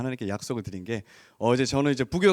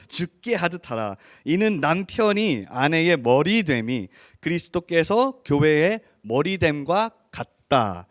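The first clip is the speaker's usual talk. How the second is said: scripture reading. Acted. Reads scripture aloud.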